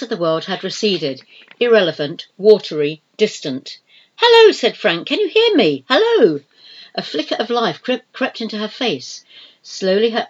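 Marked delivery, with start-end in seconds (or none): 4.1-4.5 high, loud call to rouse her; urgent loud hello. A narrator's reading. Calling to unconscious woman. 5.1-6.4 high, loud and urgent; raised voice trying to reach her; loud calling out. A narrator's reading. Calling to unconscious woman.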